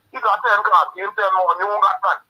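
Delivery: exasperated rant. Real, not acted. Caller venting anger on radio.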